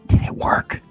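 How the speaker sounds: urgent whisper into someone's ear. Acted. Aiden whispering in the agent's ear, whispered. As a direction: whisper it, no voice at all. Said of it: "then whisper in your ear".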